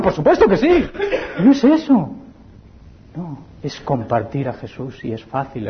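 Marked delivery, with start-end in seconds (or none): 0.0-2.1 amused chuckle through words; laughing. Real, not acted. Preacher joking with congregation, laughing. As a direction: laugh it off lightly. Preacher jokes mid-sermon.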